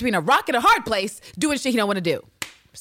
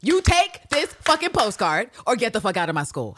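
higher, punched-out imitation of a telling-off; mock raised voice; 4 semitones higher, 3 dB louder than usual. Coach orders pupil to take the postcard, mock raised voice. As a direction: lay down the law, imitating the coach. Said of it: "she did raise her voice".

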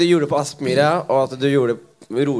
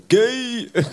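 mock heckle; 9 semitones higher than usual. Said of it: "så hadde jeg ropt sånn".

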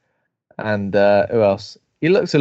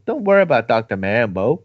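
stoner voice; 3 semitones lower than usual. Retold or imitated. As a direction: play it like a chilled-out stoner. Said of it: "over-the-top stoner voice".

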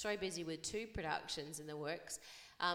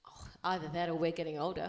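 whisper; 3 semitones lower than usual. Real, not acted. Teasing aside, whispered.

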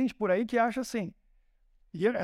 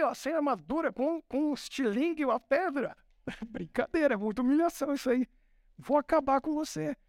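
higher, mocking giant scoffing at a boy; an outraged giant laughing off a kid; a hint of a sneering giant; indignant Goliath; 5 semitones higher than usual. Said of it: "Golias ficou indignado, falou".

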